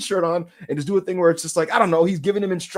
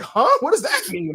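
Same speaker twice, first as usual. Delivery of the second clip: higher, puzzled viewer voice; mock bafflement; 8 semitones higher than usual. Imitated viewer puzzling over a gesture, baffled. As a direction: act out a confused fan. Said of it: "And you're like".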